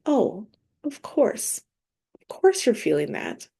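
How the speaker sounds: loving. Shown as a demonstration. Woman soothing her own guilt and shame, lovingly. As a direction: gently reassure yourself. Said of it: "just saying, like".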